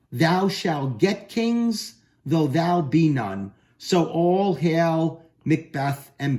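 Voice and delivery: measured, drawn-out oracle voice; slow prophecy reading. Acted. Teacher reading the witches' prophecy to the class, slow and solemn. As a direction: intone it slowly like a prophecy.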